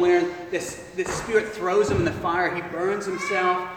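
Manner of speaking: a hint of a grieving father; father confessing his shame to Jesus; sad. Father pours out his sorrow.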